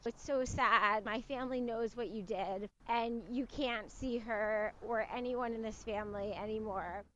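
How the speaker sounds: lightly voiced mom, hushed and heavy; soft sad firmness. Mom confronting abuser on phone.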